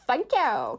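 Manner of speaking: quick lisped Fozzie thanks; Fozzie th sound. Shown as a demonstration. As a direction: lisp the T into th like Fozzie. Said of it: "I put my tongue between my teeth and went th".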